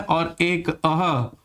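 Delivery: अह drawn out slowly with a breathy h at the end; visarga demo. Shown as a demonstration. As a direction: stretch अह slowly, ending on an audible h. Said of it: "जिसको विसर्ग कहा जाता है".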